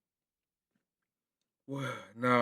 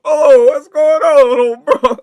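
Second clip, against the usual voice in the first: alarmed wake-up; 2 semitones higher, 4 dB louder, slower than usual. Retold or imitated. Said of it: "you gotta really get up, like".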